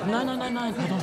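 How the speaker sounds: loud flustered no. Acted. Conductor stops the band, flustered.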